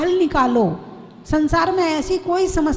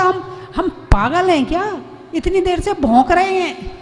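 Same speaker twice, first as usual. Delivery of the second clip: angry wife. Retold or imitated. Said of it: "पत्नी चिल्ला रही थी।".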